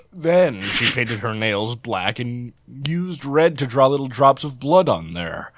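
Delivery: hushed nature documentary narration; narrator voice. Acted. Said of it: "sorry, narrator voice".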